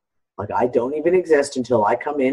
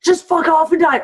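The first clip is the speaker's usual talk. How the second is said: mock snarl; 12 semitones higher, 4 dB louder than usual. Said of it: "it was like".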